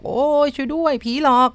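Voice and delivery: storyteller's acted scream for help; yelling for help. A narrator's reading. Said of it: "ตะโกนแหกปากบอก".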